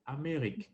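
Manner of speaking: Amérique said clearly the French way, a-mé-RIK; model pronunciation. Shown as a demonstration. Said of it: "tell you how to pronounce it".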